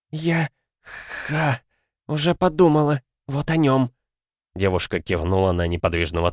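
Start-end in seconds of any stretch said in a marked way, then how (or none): 0.1-3.9 out of breath. Acted. Wounded hound catching breath.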